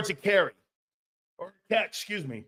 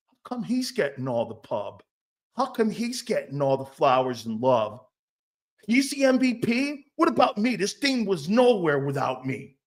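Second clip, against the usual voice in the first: mock pouty star asking where his praise is; whiny jealous player. Player complaining to reporters, mock whiny. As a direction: whine like the overlooked teammate.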